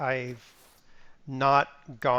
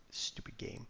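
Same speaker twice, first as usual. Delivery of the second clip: muttered; 3 semitones lower, 16 dB quieter than usual. Real, not acted. Grumbling at the game.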